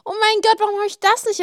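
a sudden loud, high oh my god; sudden realization. Real, not acted. Remembering an untold story, she exclaims in surprise. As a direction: blurt it out as it hits you.

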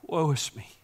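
usual speaking voice

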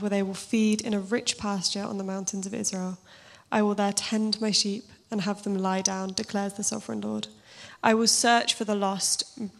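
steady, measured Bible reading with weight; scripture reading. Acted. Preacher reads Ezekiel to the congregation, measured and solemn. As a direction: read the prophet's words to the congregation.

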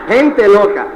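loud, high mock outrage; hammed-up loud astonishment at a crazy crowd; retold disbelief. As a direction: exclaim it like a scandalized newcomer. Retold shock at shouting crowd.

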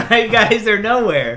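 exaggerated appeal. Mock plea to audience.

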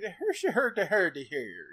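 Irish accent done badly. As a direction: stumble into a hammy Irish accent. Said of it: "I gotta do your Irish accent".

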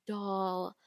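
sighed mock-patronizing endearment; belittling imitation. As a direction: sigh it out condescendingly. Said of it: "Casey's just kinda using that".

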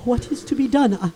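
soft, low, trembling worry; frightened hush. Acted. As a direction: murmur it in dread. Terrified before the specter.

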